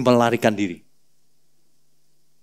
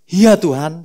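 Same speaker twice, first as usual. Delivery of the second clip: mock tearful; 3 semitones higher, 4 dB louder, slower than usual. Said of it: "sambil nangis-nangis Petrus".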